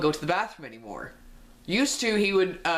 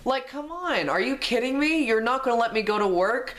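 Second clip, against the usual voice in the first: exasperated outrage; 7 semitones higher than usual. Real, not acted. Exasperated rant at the teacher.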